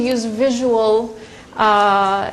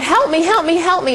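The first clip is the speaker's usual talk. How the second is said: mildly raised, higher mock yell; retold yell for help; 6 semitones higher than usual. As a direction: imitate a resident calling out for help. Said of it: "she heard the resident yelling out".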